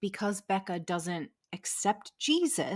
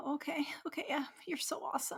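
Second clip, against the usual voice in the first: whispery, soft, weepy speech through tears; 8 semitones higher, 8 dB quieter than usual. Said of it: "Why are you crying?".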